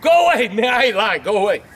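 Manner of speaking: mild scared shout; frightened yell. Acted. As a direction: shoo him off, still spooked. Scared of the visitor at the yard.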